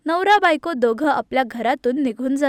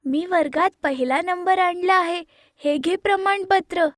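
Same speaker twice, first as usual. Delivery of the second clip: happy; 5 semitones higher than usual. Acted. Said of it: "माया खूप आनंदात".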